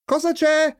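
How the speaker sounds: high-pitched call to another room; calling from the kitchen. A narrator's reading. Mother answering from the kitchen, high calling voice. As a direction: call it out high, without much volume. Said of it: "domandò dalla cucina".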